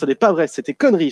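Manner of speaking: fast, lightly voiced Tommy brushing it off; Tommy Wiseau parody. Podcast host opening in his Tommy role, fast light denial. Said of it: "je m'attribue le rôle de Tommy Wiseau avec mon accent belge".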